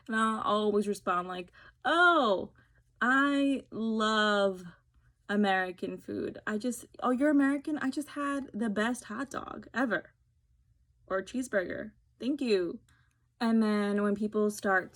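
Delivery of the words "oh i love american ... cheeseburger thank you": sarcastic parody of the gushing fan; mock gushing reply. Her sarcastic comeback to an American about food, mock gushing. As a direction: turn the gush back on them.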